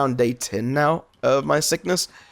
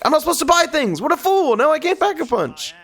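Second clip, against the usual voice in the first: high sing-song self-mockery; mock self-scolding; 3 dB louder than usual. Real, not acted. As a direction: scold yourself in a silly voice. Mocks own buying mistake.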